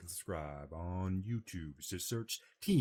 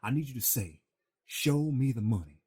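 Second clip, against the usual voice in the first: Cuba Gooding Jr. on the phone. Retold or imitated. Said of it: "is on the edge of the phone telling you".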